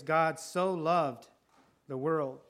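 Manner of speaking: very slow, each word weighed; slow emphasis. Acted. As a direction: linger on every word.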